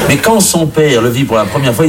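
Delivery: normal talking voice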